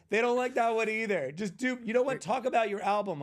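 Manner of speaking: ordering him around mid-set, high and loud. Retold or imitated. Rich woman to the comedian, bossing him mid-show. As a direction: talk down to the hired comic. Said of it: "She goes".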